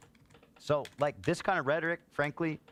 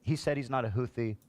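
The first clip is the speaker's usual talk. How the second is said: higher mocking voice of a dismissive critic; mocking opponents; 3 semitones higher than usual. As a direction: parody the naive defender, lightly. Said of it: "what people go".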